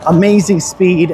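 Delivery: talking into a windy microphone; wind on mic. Real, not acted. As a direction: wind noise over the mic. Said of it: "you can probably hear the wind noise in the microphone".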